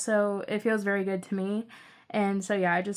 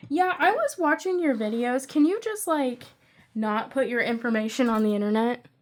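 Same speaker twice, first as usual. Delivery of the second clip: imitating mom; 3 dB louder than usual. Acting out mom's wary phone reply.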